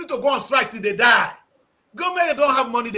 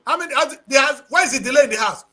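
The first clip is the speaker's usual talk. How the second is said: demanding boss; 5 dB louder than usual. Pretend. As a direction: pretend boss shouting, louder. Voicing the boss demanding progress.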